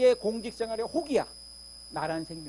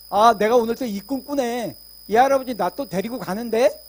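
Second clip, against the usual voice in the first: inner voice in the dream; 2 semitones higher, 8 dB louder than usual. Retold or imitated. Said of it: "알아".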